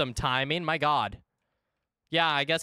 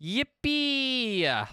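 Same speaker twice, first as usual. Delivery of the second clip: excited squeal; 9 semitones higher than usual. Real, not acted. Cheering new mushroom.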